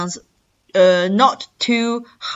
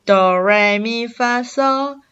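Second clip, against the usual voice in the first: musical pitch steps; slower than usual. Shown as a demonstration. Teacher likens tones to music, rising scale steps. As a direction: do re mi fa sol climbing step by step. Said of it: "are like the music".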